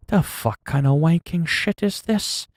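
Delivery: British accent impression. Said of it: "No, I can't do the accent".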